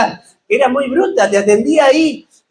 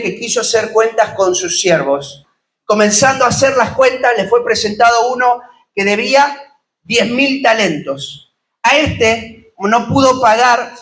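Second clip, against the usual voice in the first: scripture reading. Acted. Preacher reading the parable of the debtor to his congregation, measured reading voice. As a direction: read the parable steadily to the congregation. Preacher reads Matthew 18 aloud.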